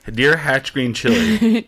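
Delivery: slow pompous letter reading; formal letter voice. Pretend. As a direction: read it like a grand formal address. Mock letter opening.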